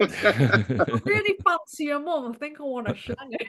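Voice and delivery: a hint of a Mancunian lad; band-style Manc impression, lightly done; mock Manc. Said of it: "Fred and Perry tried to do Oasis".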